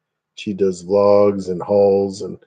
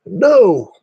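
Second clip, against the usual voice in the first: cat's reply; 11 semitones higher, 6 dB louder than usual. Pretend.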